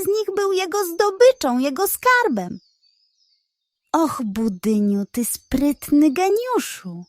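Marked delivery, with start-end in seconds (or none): 3.9-7.0 self-praising pug. Acted. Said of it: "powiedział do siebie".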